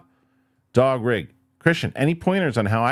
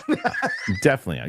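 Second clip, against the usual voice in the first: laughing refusal. Real, not acted. Laughs rejecting gory film.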